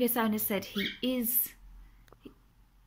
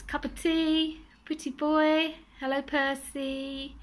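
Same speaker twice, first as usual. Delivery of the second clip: imitating a parrot; 6 semitones higher, slower than usual. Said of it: "He says".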